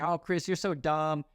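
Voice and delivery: lightly hammed-up true believer; mocking gullible commenter. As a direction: imitate a naive online commenter, barely keeping a straight face. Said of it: "I can't even say it with a straight face".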